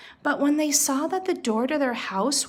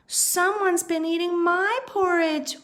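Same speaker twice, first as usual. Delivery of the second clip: higher mock wail; higher pitched, stressing my; mama bear wailing; 8 semitones higher than usual. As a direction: wail it like a distraught mother bear. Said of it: "wailed Mama Bear".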